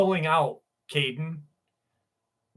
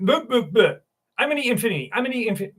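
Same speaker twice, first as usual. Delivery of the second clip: mock tongue twister; 6 semitones higher, much faster than usual. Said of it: "I could not say that five times fast".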